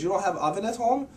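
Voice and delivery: high-pitched imitation of a teacher's question; puzzled teacher. Teacher asking why the student refuses the pigeon, imitated high-pitched question. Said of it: "He goes".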